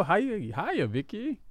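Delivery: put-on childlike hiya greeting; imitating little son. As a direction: greet like a small kid. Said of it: "that's how our son says hi".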